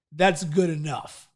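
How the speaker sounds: lightly voiced voice of settling; self-limiting inner voice. Inner voice excusing runner near the finish, lightly voiced coaxing. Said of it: "my self-talk goes".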